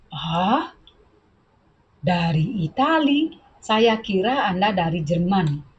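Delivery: incredulous question, rising; surprised. Shown as a demonstration. Teacher voicing A's surprise about Italy. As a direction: sound amazed at the answer. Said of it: "So they surprised".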